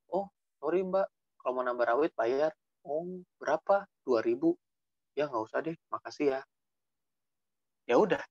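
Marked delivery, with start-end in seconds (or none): 0.1-6.4 softly acted courteous reply; gentle, no-fuss politeness; polite exchange. Acted polite exchange at food stall.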